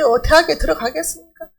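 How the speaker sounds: ordinary talk, nothing marked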